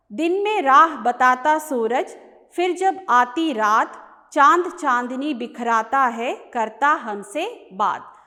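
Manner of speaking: measured Hindi verse reading with rhythmic line breaks; poem recitation. Acted. Teacher reading the short poem to students, poem recitation. Rereads next stanza aloud.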